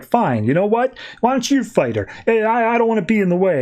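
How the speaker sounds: huffy Lady Quark. Retold or imitated. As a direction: pitch it up, a mild huffy brush-off. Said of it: "Lady Quark is just like".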